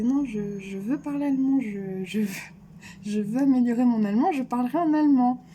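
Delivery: retold insistence. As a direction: re-enact standing your ground, voice rising. Retold insistence on speaking German.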